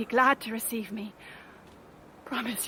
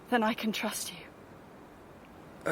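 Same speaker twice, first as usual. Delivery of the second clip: slow unvoiced whisper; secretive whisper; 8 dB quieter, much slower than usual. Woman in white confiding in a stranger, slow whisper. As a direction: breathe it like a secret.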